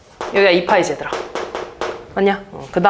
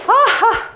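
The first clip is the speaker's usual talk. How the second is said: surprised aha; 11 semitones higher, much slower than usual. Real, not acted. Exclamation while drawing.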